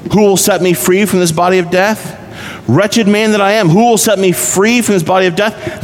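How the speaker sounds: a saint crying out to be rescued, anguished. Acted. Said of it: "My answer to this is, can a real Christian not cry out".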